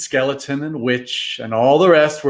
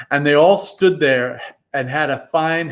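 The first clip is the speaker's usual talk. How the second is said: usual speaking voice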